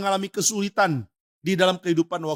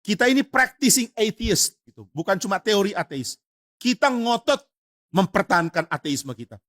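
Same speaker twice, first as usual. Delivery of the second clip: mock-indignant son, higher and pressing; angry son; 4 semitones higher than usual. Atheist son scolds his frightened father, mock-angry and higher. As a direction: scold the wavering father with zeal. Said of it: "Anaknya marah".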